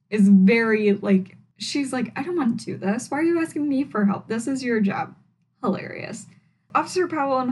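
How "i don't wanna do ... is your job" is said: mock reluctant huff. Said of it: "does it reluctantly".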